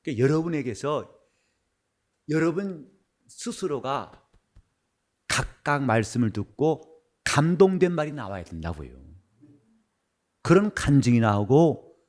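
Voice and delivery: ordinary talk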